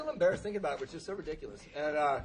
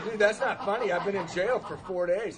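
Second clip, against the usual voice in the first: acted exasperation, louder and higher; mock indignant protest; 3 semitones higher, 6 dB louder than usual. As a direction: protest a prank, mildly outraged. Acted protest at sponsor's prank.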